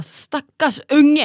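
loud, high, drawn-out lament; exaggerated pity. Sami pities the city kid, slow high lament. Retold pitying outburst about city child.

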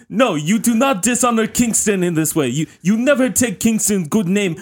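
outraged shout. Acted. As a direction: defend his honour furiously. Zlatan outraged.

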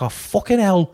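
high, hammed-up northern outburst; mock horror. Brother handed a bloody newborn, mock horror. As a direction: recoil in comic shock. Acted shocked brother given baby.

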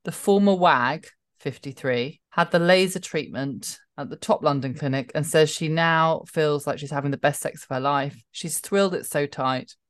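measured tabloid read-aloud, pausing between phrases; paced read-out of a gossip story; reading out headline. Acted. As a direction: read the article out deliberately.

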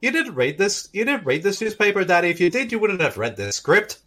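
mock Irish child; Irish accent. Child teasing Daddy about the script, Irish accent. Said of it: "I have a better Irish accent than you".

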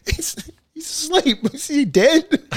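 high, slow, laughing alarm; high-pitched disbelief. Retold or imitated. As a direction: squeak it out in shock. Retelling a mate choked out.

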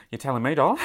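put-on wry aside in an Australian accent; playful put-on Australian. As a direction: drop in an Aussie-accented quip. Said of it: "read this in my Australian accent".

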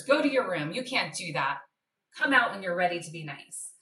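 stern scolding. Retold or imitated. Mom scolding her daughter for hitting, retold stern order. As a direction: imitate a sharp mom sending her kid off.

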